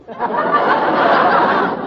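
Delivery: high-pitched giggle fit; high squealing giggle. Acted. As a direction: kid shrieks with laughter. Kid squeals laughing.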